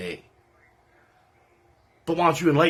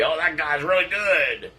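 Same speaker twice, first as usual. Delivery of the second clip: slow, put-on voice of a fawning judge; sneering imitation of judge number two; mock judge praise; 2 semitones higher than usual. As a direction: drag it out like a sarcastic judge. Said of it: "'cause he'll probably say".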